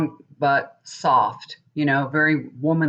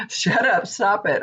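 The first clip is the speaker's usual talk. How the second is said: laughing through a playful higher shut up; laughing protest; 4 semitones higher than usual. Real, not acted. Wife laughing back at her husband, real laughter. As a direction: giggle out the words in mock protest.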